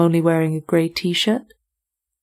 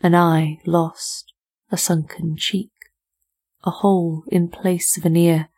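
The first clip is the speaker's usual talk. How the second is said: poem reading. Acted. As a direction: read the poem gravely, pausing on images. Reads a poem.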